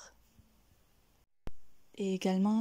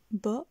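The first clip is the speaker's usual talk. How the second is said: BO lifted a little, as the first part of bonne; a small upward step on bo; slight rise. Shown as a demonstration. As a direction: let bo go slightly up. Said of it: "le son ici monte un peu au début".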